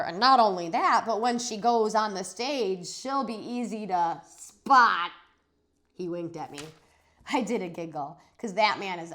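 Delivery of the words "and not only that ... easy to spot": a silly joker grandpa landing the joke; joking grandpa. Acted. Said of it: "said Grandpa Miller".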